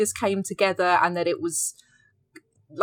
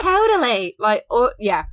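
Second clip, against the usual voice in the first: put-on high drawn-out Valley Girl totally; 4 semitones higher, 5 dB louder than usual. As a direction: gush it like a mall teen. Valley Girl parody continues.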